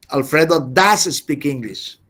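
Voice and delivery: does stressed, at normal pace; emphatic stress. Shown as a demonstration. Teacher repeating the example, does stressed. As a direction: land the weight on does. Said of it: "emphatic stress on does".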